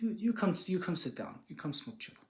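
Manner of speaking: softly imitated sage, starting high and dropping away; inviting sage. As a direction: quietly coax like the retold sage. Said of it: "he's like, he's like".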